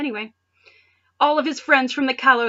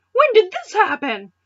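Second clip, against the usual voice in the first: higher and louder, hammed-up shock; shocked disbelief; 10 semitones higher, 9 dB louder than usual. Ash caught off guard by the hero's Zoroark form, higher, louder disbelief. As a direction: play it like the twist blindsided you.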